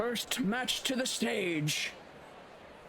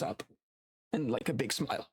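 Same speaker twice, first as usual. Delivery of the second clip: deep bear voice; 8 semitones lower than usual. Acted.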